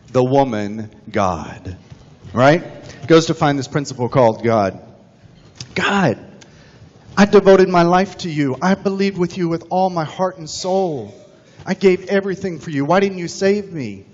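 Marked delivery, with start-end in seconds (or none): 5.7-14.1 higher, aggrieved plea to God; the drowned man complaining to God in heaven, higher; pleading complaint. Retold or imitated. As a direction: ask why he was abandoned.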